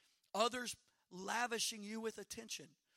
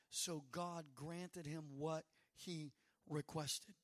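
slow, weighty; 4 semitones lower, much slower than usual. Shown as a demonstration. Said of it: "and it ends with".

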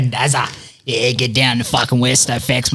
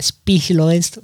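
higher-pitched quick plug; example ad blurb; 5 semitones higher, slower than usual. Shown as a demonstration. Podcaster showing co-host how the sponsor blurb should go, higher-pitched plug. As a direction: punch out the brand name higher. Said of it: "you gotta be like".

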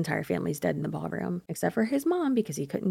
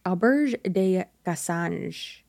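"Auberge de Cassange" slowly, very Frenchified; accent français exagéré, très lent; hammed-up French accent; much slower than usual. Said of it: "horrible French accent".

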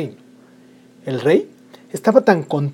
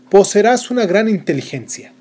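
higher, bright blessing; fairy godmother; 6 semitones higher, 4 dB louder than usual. Acted. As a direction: bestow the gift like a spell. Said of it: "La segunda". (hada madrina concediendo un don)

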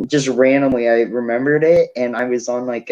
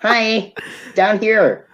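higher, small voice calling up; tiny voice from below; 9 semitones higher, much slower than usual. Pretend. Short guy calling up to tall friends, high. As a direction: pipe up from far below. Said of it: "how am I supposed to fit".

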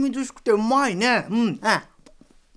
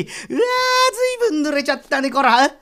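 驚きの声; 5 semitones higher than usual. Acted. 雨でずぶ濡れ.

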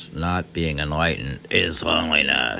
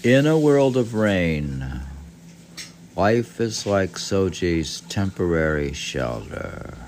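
poem reading; 4 dB louder than usual. Acted. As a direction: read the translation gently like verse. Reads the haiku translation.

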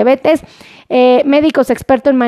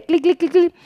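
imitated clicking; 3 semitones higher, 4 dB quieter than usual. Imitates quick fingers clicking.

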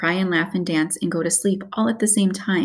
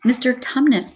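higher, mildly bawled call; 6 semitones higher, 3 dB louder than usual. A narrator's reading. Lucy bawling in the weeping fawn's ear, mildly. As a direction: call out to get through to him. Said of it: "bawled Lucy in her ear".

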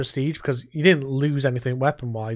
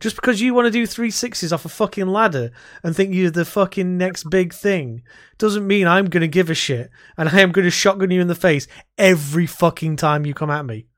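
retold rant; 4 semitones higher, 3 dB louder than usual. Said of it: "I was like".

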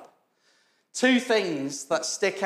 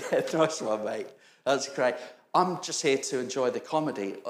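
flat, dry sarcastic reply; dry sarcasm; 5 semitones lower than usual. Retold or imitated. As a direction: wryly brush it off, lower. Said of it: "I turn to him and go".

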